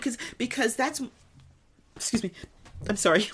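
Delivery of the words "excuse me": talking through burps; interrupted by a burp. Real, not acted. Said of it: "I'm burping".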